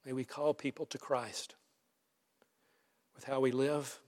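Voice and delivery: measured public prayer with long pauses; earnest prayer. Real, not acted. Pastor praying to the Father for the church, prayerful. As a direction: pray aloud unhurriedly, phrase by phrase.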